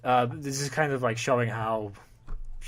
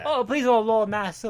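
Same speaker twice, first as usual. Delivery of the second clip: stereotypical servant; 8 semitones higher, 3 dB louder than usual. Retold or imitated.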